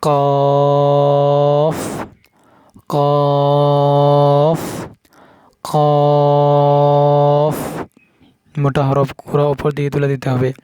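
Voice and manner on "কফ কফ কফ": কফ said thick and full; heavy qaf. Shown as a demonstration. Teacher showing the heavy কফ. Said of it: "এই কফটা মোটা".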